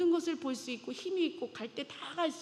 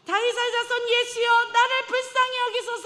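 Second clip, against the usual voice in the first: very high, loud plea for mercy; the beggar crying louder to Jesus despite the rebuke; even louder cry; 9 semitones higher, 9 dB louder than usual. Acted. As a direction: shout it out over the crowd. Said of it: "더 크게 이야기하죠".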